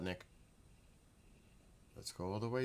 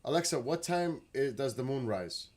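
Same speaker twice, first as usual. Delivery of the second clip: loud, high call to the speaker; command voice; 5 semitones higher, 7 dB louder than usual. Real, not acted. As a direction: project it so Alexa hears.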